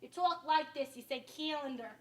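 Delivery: mock upstate New York accent, flat A; teasing upstate accent impression. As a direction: imitate upstate New Yorkers' flat A in "calendar". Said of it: "you have the flat A".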